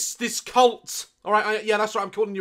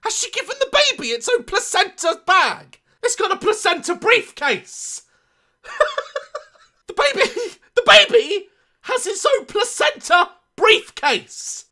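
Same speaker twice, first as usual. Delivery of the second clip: laughing disbelief; 12 semitones higher, 4 dB louder than usual. Real, not acted. Incredulous laughing at photo.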